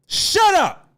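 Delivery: sharp, loud shout at the chat; angry shout. Real, not acted. Ranting streamer yells at his chat to shut up. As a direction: cut them off with a yell.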